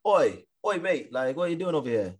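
hammed-up London geezer accent; mock British accent. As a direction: hail a mate in a fake London accent. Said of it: "best accent to make fun of".

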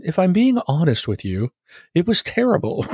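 mock talent-show judge verdict; hammed-up judge's put-down; Simon Cowell. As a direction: deliver a damning critique, pitching up on terrible. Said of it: "Simon Cowell impersonation".

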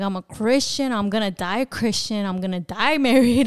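insistent retold outburst; going off on him. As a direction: retell an emphatic refusal, laugh breaking in near the end. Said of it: "I start going off on him".

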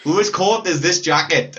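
Welsh accent. Shown as a demonstration. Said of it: "that's a Welsh".

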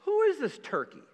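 put-on a brash kid sizing up the giant; cocky teen David. Pastor voicing young David scoffing at Goliath, high and cocky. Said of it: "he gets in, he says".

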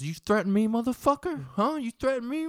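high, loud, menacing snarl at gunpoint; hostile threat. Retold or imitated. Strung-out Corey threatens James with a gun, high and loud. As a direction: bark it like a strung-out gunman. Armed man threatening narrator.

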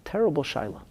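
a lifted, hushed second take of "terrible shaila". Shown as a demonstration.

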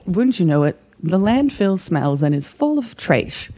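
put-on glamorous old Hollywood star; old Hollywood mid-Atlantic trash; mid-Atlantic accent. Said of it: "Are you trying to do, like, a mid-Atlantic accent right now?".

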